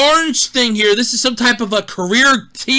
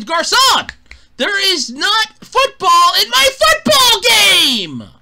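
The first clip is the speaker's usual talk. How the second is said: calling the waiter; 7 semitones higher, slower than usual. Pretend. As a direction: drag it out like a fussy diner. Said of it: "going to the waiter and going".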